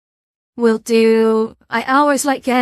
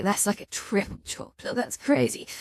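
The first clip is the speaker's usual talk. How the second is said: awed whisper; 9 dB quieter than usual. Real, not acted. Awed by triple chocolate cake.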